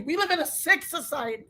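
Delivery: hushed, sickened; quiet disgust. Real, not acted.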